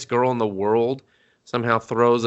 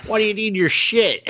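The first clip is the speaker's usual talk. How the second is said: teacher voice; 10 semitones higher than usual. Retold or imitated. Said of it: "the teacher's like".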